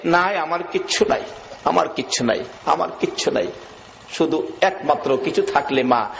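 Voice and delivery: low, dejected repetition; understated tearful lament. Retold or imitated. Elder brother weeping he has nothing, low understated lament. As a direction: repeat it low, as a mild acted lament. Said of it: "বড় ভাই কান্দে".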